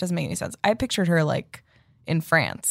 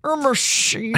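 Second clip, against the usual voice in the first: higher, ominous raspy drawl; spooky old man voice; 8 semitones higher, slower than usual. Pretend. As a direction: creep it out like a ghoul. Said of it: "spooky old man voice".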